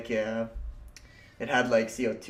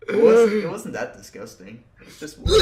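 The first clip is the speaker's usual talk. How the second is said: laughing; 10 semitones higher, 9 dB louder than usual. Real, not acted. Squeaky laughing high pitch.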